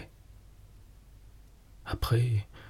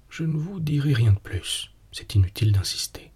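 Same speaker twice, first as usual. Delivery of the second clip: ordinary delivery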